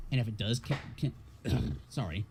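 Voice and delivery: strained, worn-out voice breaking; losing voice. Real, not acted. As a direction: voice cracking and giving out. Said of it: "I'm losing my voice".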